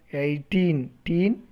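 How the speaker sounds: put-on "eighteen" broken down, then "teen" by itself; syllable by syllable. Shown as a demonstration. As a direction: isolate the second syllable of "eighteen". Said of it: "two syllables".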